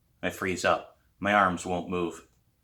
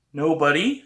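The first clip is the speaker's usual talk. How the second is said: annoyed; 7 semitones higher, 5 dB louder than usual. A narrator's reading.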